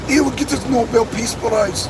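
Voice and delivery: lightly put-on Irish accent; George Galloway in Irish accent. Vlogger showing viewers his Galloway take, mock Irish accent. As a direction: deliver the verdict in an imitated Irish accent. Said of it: "my Irish accent".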